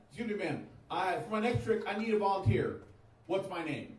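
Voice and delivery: lightly voiced stage magician; theatrical magician. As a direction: announce the trick like a showman. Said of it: "My impression of a magician with Alzheimer's".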